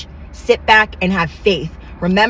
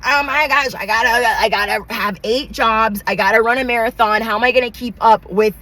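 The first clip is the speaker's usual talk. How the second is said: fast, breathless mock panic; hammed-up rush to keep up; frantic rush. Mimicking rivals racing to keep up, mock frantic. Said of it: "these people are out here like".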